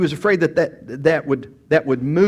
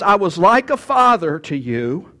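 slow and tender, a little louder, like a grieving father; tender Paul; 4 semitones higher, 3 dB louder, slower than usual. Acted. Preacher voicing Paul to the church, slow heartfelt longing. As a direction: plead like a father robbed of his children. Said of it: "Paul says".

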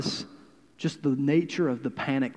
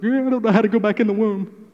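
quick, higher puzzled voice; a hint of confused Nicodemus; 5 semitones higher, 4 dB louder, faster than usual. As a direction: toss it off, baffled. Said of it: "Nicodemus is like".

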